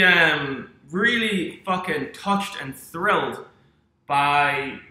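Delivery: talking with whitening strips in. Real, not acted. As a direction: speak around teeth whitening strips. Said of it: "how to do a video with teeth whitening strips in".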